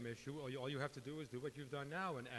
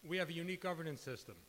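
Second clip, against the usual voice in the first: louder and higher, projecting; professor voice; 4 semitones higher, 4 dB louder than usual. Shown as a demonstration. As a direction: lecture to the back row. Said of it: "I'll use my professor voice".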